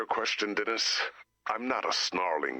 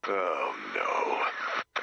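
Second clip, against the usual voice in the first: alarmed cry; 8 semitones lower than usual. Acted. Sudden alarm.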